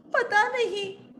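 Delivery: high, slow mock-tearful answer; whimpering queen. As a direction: admit it through put-on tears. Crying queen answers maid. (रुआँसी रानी का जवाब)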